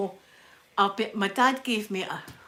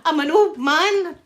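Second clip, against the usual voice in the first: put-on old man voice; 8 semitones higher, 10 dB louder, slower than usual. Jokes about looking old.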